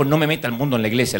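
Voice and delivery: rattled off fast, lightly voiced pastor; tossed-off replay of the pastor's line; quick retold rebuke. Pastor's rebuke retold quickly, lightly voiced. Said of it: "le dijo el pastor".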